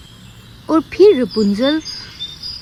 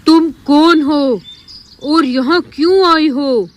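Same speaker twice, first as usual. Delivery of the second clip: loud dinosaur; 3 dB louder than usual. Acted. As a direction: boom the question out. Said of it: "जोर-जोर से बोलने लगता है".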